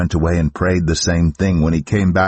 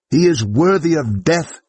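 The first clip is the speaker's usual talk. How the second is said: much higher, hard verdict cry; condemning crowd; 9 semitones higher than usual. Acted. The council answers the high priest, calling for death. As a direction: call for his death as one.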